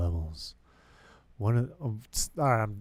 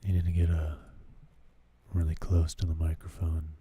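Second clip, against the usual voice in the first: a hint of soothing late-night radio; NPR voice. Shown as a demonstration. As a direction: purr it like a public radio host. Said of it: "do the N P R voice".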